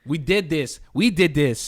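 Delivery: lightly mocked Canadian accent; a hint of imitation Canadian. Friend mimicking a rapper's accent, lightly mock Canadian. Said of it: "the Canadian accent is just really funny".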